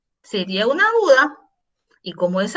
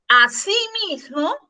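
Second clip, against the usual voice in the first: "a sí mismo" slow and higher, as three words; split in three parts; 4 semitones higher than usual. Shown as a demonstration. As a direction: spell out the word breaks in "a sí mismo" by slowing down. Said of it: "El separado en tres partes".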